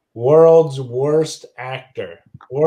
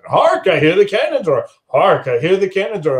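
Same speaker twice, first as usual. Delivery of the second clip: rehearsing aloud; 4 semitones higher than usual. Acted. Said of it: "He's practicing".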